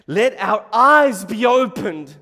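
high, loud, drawn-out plea; pleading cry. Acted. Blind man begging Jesus for sight, loud pleading.

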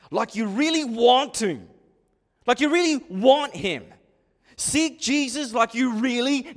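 forceful, urgent pulpit appeal; impassioned exhortation. Real, not acted. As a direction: drive it home with punched key words. Preacher exhorts at full force.

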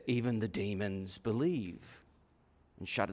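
low, soft warning; ominous hush. Acted. James warning that demons shudder, low and hushed. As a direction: drop to a dark hush. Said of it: "he says".

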